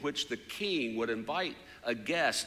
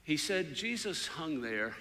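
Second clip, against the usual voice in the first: ordinary talk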